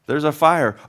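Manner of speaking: urgent caller. Acted. Acted 911 caller reports fire.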